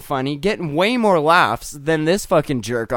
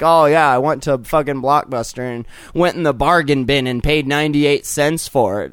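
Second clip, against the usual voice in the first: low, offhand voice, unlike his own; lazy Jack Black; 3 semitones lower than usual. Retold or imitated. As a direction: toss it off like a cheap slacker. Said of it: "He's like".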